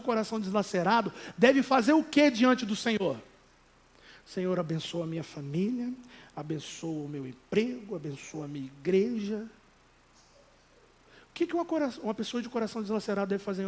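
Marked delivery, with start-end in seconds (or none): 4.3-9.5 low, soft, restrained prayer; oração contida. Acted. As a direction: recite a polite prayer without any outcry. Mock restrained prayer, contrasted with crying out. (oração baixa e contida, sem clamor)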